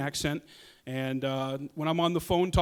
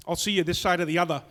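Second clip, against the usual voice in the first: mock Boston accent; faster than usual. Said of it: "movies with the Boston accent".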